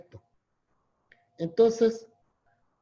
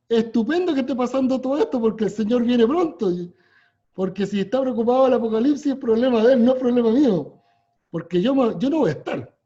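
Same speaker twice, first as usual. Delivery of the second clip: louder, fast and emphatic, rising to a near shout; fervent preaching; 4 semitones higher, 5 dB louder, faster than usual. Real, not acted. Teacher telling friends he's unafraid, preaching it out loudly. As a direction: press the point home like a pulpit climax.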